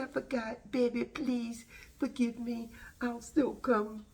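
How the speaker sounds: high, slowing Jamaican put-on at the end; mock Jamaican accent. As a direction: plead sweetly in a playful Jamaican accent. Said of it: "that's my Jamaican".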